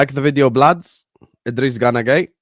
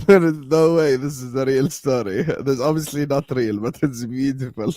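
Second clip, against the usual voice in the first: laughing disbelief; 3 semitones higher than usual. Real, not acted.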